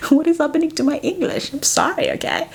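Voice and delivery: high, fast flustered laughing aside; a quick high giggly apology. Real, not acted. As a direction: laugh at yourself, embarrassed. Embarrassed at own English.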